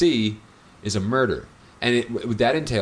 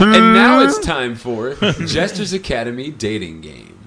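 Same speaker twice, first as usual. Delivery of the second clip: louder, slow showman intro; game show announcer; 6 dB louder than usual. Pretend. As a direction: boom it out like a host.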